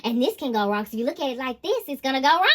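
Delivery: whiny doom-and-gloom mimicry; negative Nancy voice. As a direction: play a mopey pessimist. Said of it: "Literally, like".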